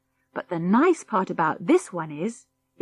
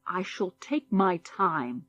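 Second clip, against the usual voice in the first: slow, softer, self-important; a guest refuses to leave, pompous; 4 dB quieter, slower than usual. Acted. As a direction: drag it out grandly. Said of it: "said Mister Henning pompously".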